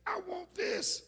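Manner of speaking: put-on child shouting. Little Fred shouting to his daddy from sporting goods, excited child's yell. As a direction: shout like a boy who's found the perfect toy. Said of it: "and shouted".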